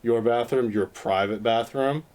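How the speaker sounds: slurring a bit after drinks. Real, not acted. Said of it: "I'm really drunk right now".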